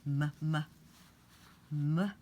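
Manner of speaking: hummed m sounds; teacher sounding out "m"; phonics sound. Shown as a demonstration. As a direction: say "m" as a hum. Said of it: "Mop has an ah sound".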